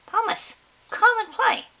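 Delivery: calling out. Acted. A kid calling Thomas out to play, loud high yell. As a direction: shout it across the playground. Someone yelling across playground.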